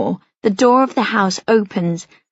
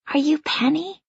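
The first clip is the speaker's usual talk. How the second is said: put-on shy little girl; 6 semitones higher, 5 dB quieter than usual. A narrator's reading. Little Bella asks shyly.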